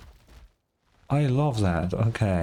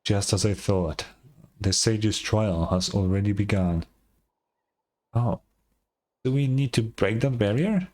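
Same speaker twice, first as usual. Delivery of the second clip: solemn elder lore. Acted. Elder explains the sage's legend to the travelers, grave and measured.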